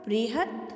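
"बृहत्" ending on a bare t; halant ending. Shown as a demonstration. Teacher models the third line, halant t lightly sounded. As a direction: stop "बृहत्" on t, no vowel after. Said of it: "किम और बृहत् को किस प्रकार से उच्चारित किया".

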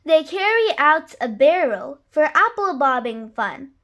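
put-on lively read-aloud rhyme for children; story narration. A narrator's reading. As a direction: read it like a bedtime picture book. Reads a rhyming picture book.

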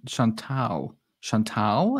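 Chantal with an open "a", ending near "tal"; copied pronunciation. Retold or imitated. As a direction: try out Chantal as "shawn-TAL", then question it. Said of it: "say her name like that".

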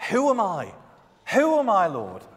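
a touch of high-pitched disbelief; Moses protesting. Acted. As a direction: question your own fitness, mildly incredulous. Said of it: "What an honest response from Moses".

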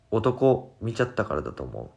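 plain reading voice

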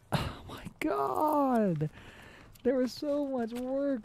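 slow, whispered near-sob; real crushed whisper; despairing whisper. Real, not acted. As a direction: breathe it out, defeated. Crushed after the failed play.

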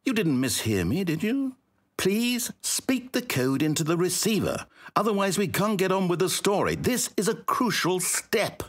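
strained politeness pressing for the code; strained insistence. Acted. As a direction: hold in the annoyance, barely polite. Narrator repeats the request, insisting.

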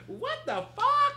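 very high, loud, slow disbelief; stunned. Retold or imitated. A guest reacting to Tyra's switch, high slow shriek.

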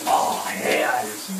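slow whispered sigh of pleasure; sinking into hot bath. Real, not acted. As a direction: whisper it, drawn out and blissful. Enjoying warm water on himself.

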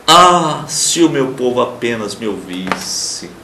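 a wistful divine lament. Shown as a demonstration. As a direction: voice God's sorrow, gently and slowly. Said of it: "Ele lamenta".

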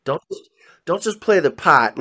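Chick's Boston "pot" for "part", lightly imitated; mock Boston accent quoting the bandleader. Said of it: "with the Boston accent".

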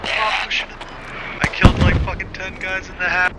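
high, keyed-up disbelief; excited exclamation. Real, not acted. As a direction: burst out in amazed frustration. Just killed in game.

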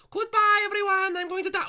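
very high, loud falsetto farewell; hammed-up death cry. Character caught by Knuckles, mock dying farewell. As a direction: wail it like a cartoon goner.

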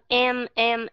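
drawn-out "em" with a held nasal m; em sound. Shown as a demonstration. Teacher showing the em sound to the class. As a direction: stretch the m in "em" like in emphasize. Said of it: "các bạn sẽ thấy em hay là emphasize".

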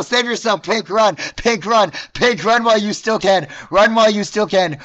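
fast, frantic urging; urgent warning. Real, not acted. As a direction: yell at them to run for their life. Urging fleeing character to run.

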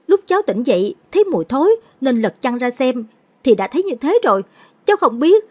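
put-on very high, loud panicked child's cry; terrified scream. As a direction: babble it out in pure terror. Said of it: "Thằng Long sợ hãi hét lên". (đứa trẻ hoảng loạn hét lên vì sợ)

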